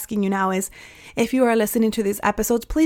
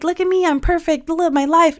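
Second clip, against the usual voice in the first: mock smug perfection; 7 semitones higher than usual. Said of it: "podcast host who's like".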